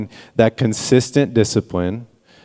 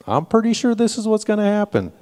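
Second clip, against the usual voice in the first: imitating daughter; 12 semitones higher than usual. Quoting daughter Brooklyn.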